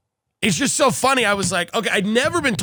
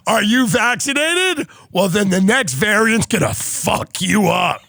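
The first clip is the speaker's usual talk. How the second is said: slow, punchy mock warning; hammed-up menacing announcement, drawn out; slower than usual. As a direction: draw out the question, then deliver the threat. Imagined future warning about variant.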